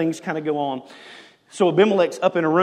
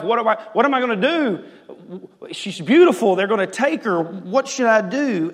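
fast, higher, louder fretting as Isaac; panicky husband; 6 semitones higher, 5 dB louder than usual. Acted. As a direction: play a husband spiraling into panic. Preacher acts out panicking Isaac.

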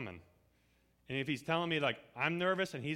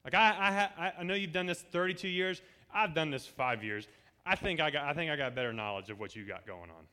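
mock arrogant. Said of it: "can you imagine if I turned around and said".

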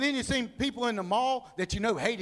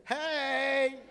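drawn-out greeting; 7 semitones higher than usual. Acted. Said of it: "Let's look at 'em again and go".

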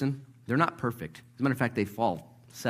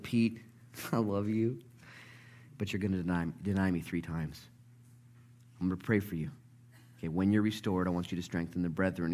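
gentle reassurance; 2 semitones lower, 5 dB quieter than usual. Acted. Jesus gently warns and reassures Peter.

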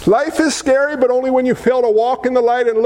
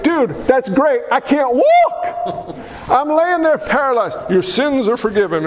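laughing mock complaint. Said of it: "I'd be like".

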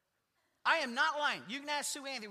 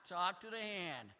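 quieter, brushing-off delivery; dismissive talk to the hand; 4 semitones lower, 5 dB quieter than usual. Shown as a demonstration. Pastor showing the congregation a dismissive talk to the hand. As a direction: wave them off with the phrase Talk to the hand. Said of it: "I don't wanna talk to you anymore".

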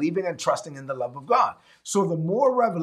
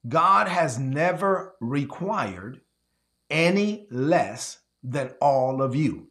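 slow, weighty, every word spaced; deliberate preacher slowdown, low and heavy; 4 semitones lower, much slower than usual. Shown as a demonstration. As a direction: spell it out slowly for the back rows. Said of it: "let me say it slow for the people in the back".

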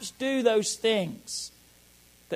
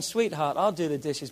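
softer, lower, willing offer; gladly; 5 semitones lower, 4 dB quieter than usual. Shown as a demonstration. Husband to wife, a glad, soft offer. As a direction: say it like you're glad to help. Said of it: "I'm gladly doing it".

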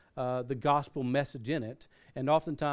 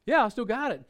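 high, louder upbeat yes; eager confirmation; 8 semitones higher, 4 dB louder than usual. Retold or imitated. Caller telling pastor he kept the tract, eager. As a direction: confirm it brightly, in imitation.

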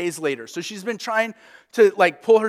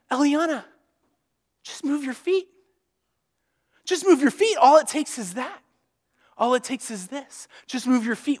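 coaxing parent; 5 semitones higher than usual. Retold or imitated. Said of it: "And we're saying".

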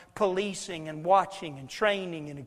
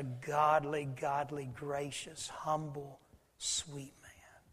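tender; 4 semitones lower, 5 dB quieter, much slower than usual. Real, not acted. Tender praise of the pastor.

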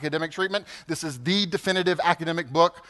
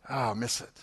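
wistful; 7 semitones lower, 10 dB quieter than usual. Real, not acted. Missing a departed elder.

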